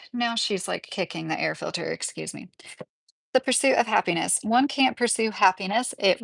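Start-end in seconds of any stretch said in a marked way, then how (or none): 0.1-2.5 quiet aside. Real, not acted. Aside about a noise.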